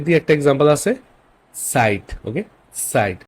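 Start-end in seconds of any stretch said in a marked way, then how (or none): 1.5-2.0 "সাইট" with a faint T before the S; German Z as TS. Shown as a demonstration. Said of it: "তটা একটু সামনে দিয়ে আসবে". 2.9-3.2 "সাইট" opening with a slight ts; German Z as TS. Shown as a demonstration. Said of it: "তটা একটু সামনে দিয়ে আসবে".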